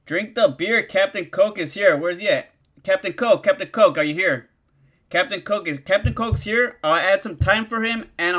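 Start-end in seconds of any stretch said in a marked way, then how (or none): 2.8-4.5 calling out. Real, not acted. Streamer calling for Captain Coke to show up, loud call. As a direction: call the name out, a little louder.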